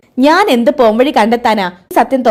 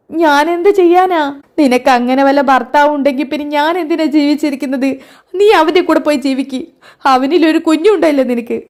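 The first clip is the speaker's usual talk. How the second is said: tearful; 3 semitones higher than usual. Acted. Sruthi's mother weeping at her daughter's betrayal. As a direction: voice close to tears. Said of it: "ശ്രുതി കരയല്ലേ?".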